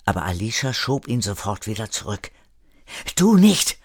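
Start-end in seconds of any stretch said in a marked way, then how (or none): 3.2-3.8 laut und hoch: Du nicht!; scharfer Ausruf. Acted. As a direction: halte ihn mit einem Ruf zurück. Alicia hält Erik zurück. (Alicia stoppt Erik mit lautem Ruf)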